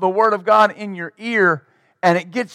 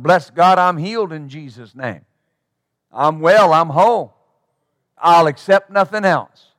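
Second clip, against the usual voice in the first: confident faith. Retold or imitated. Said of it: "they're not gonna answer this way".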